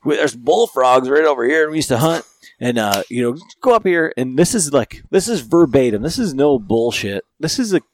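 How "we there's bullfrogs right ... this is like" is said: excited rambling tour-guide Frank, louder and higher; imitating Frank. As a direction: rattle off the landmarks like Frank does. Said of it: "riding along with Frank is like this".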